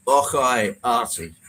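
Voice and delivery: a bad, half-hearted Scottish accent; mock Scottish greeting, clumsily done; mangled Scottish. Mangling a Scottish greeting to viewer Andrew in mock Scottish. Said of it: "I just murdered that".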